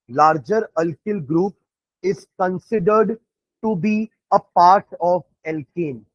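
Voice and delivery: slow, word by word for notes; dictating at writing pace; slow dictation. Shown as a demonstration. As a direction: spell it out for students to write down. Teacher dictating a rule.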